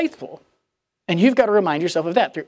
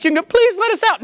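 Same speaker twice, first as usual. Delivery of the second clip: mock pleading kids; 10 semitones higher than usual. Kids pleading from the ball pit.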